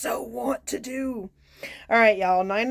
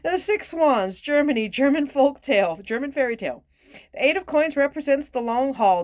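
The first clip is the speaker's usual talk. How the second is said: higher-pitched card reading; reading aloud; 6 semitones higher, 4 dB louder than usual. Real, not acted. Card reader announcing a German fairy tale, reading aloud. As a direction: read the entry out clearly, pitched up.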